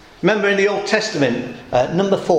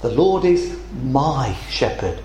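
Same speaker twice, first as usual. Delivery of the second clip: lower, slower and softer, sincere; quiet conviction; 5 semitones lower than usual. Acted. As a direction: say it like a settled confession of faith. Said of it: "but the believer says".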